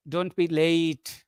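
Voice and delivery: slow, softened command with "late" drawn out; requesting, unhurried "late". Shown as a demonstration. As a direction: say it slowly as a request, stretching LATE. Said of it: "intended to a request".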